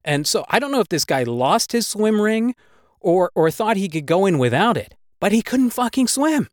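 usual speaking voice

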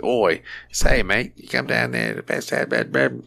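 fumbling Australian accent attempt; a weak, hesitant Australian accent. Shown as a demonstration. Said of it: "Oi is usually my trigger word".

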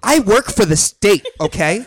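self-important Karen. Acted. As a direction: pull rank like a Karen. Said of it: "we could be Karens".

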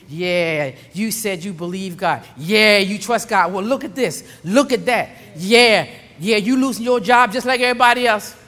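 a touch of needling trash talk; lightly voiced taunting enemy. The enemy taunting a believer about trusting God, mildly mocking. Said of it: "talking trash".

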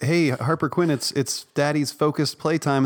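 a touch of slow, sing-song cheer; lightly mock an overly upbeat dad; chipper dad voice. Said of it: "if you're like".

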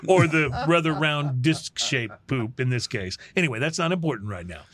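lightly hammed-up reporter sign-off; a touch of newsroom gravity, played for laughs; mock news sign-off. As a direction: wrap it up like a field reporter, tongue in cheek.

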